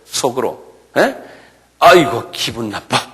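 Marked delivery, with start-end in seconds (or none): 1.8-3.0 grumbling inner voice. Retold or imitated. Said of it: "이런 소리예요".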